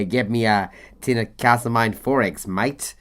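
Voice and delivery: tossed-off Australian impression in a pub order; Australian accent. Joking that the guest is Australian, not Welsh: a light Australian accent. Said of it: "he's proper Australian".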